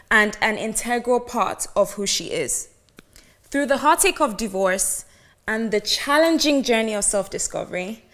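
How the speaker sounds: polished, even host intro read; a smooth scripted introduction; podcast intro read. Acted. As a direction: read the intro like a show opener.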